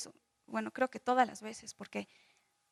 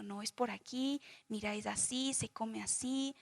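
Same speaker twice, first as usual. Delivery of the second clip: put-on softer voice, as if showing a child; explicación paciente; 2 semitones lower, 9 dB quieter than usual. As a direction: guide a small child gently and patiently. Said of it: "decirle a un niño". (con voz suave y paciente, como a un niño)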